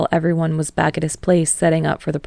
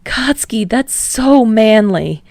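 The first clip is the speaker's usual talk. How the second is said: higher, louder, slow adoring praise; gushing; 4 semitones higher, 4 dB louder, slower than usual. Acted. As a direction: draw it out with admiration. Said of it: "Kirishima gushed".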